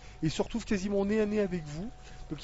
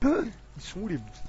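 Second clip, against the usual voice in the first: odd monster voice; 3 semitones higher, slower than usual. Acted. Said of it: "je vais faire un truc un peu bizarre".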